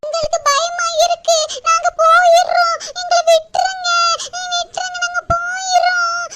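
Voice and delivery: put-on scared child begging through tears; tearful, frightened pleading. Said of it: "அழுகையை நிப்பாட்டுங்கன்னு சொல்றேன்ல".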